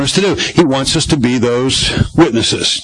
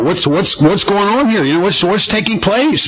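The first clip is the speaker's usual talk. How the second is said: stammering, higher-pitched wonder; mock amazement; 6 semitones higher than usual. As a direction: play a stunned onlooker, stumbling over the question. Voicing stunned, gaping onlookers.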